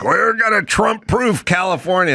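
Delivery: high, mocking pompous announcement; mock official. Mocking California politicians proudly. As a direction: parody a smug state official.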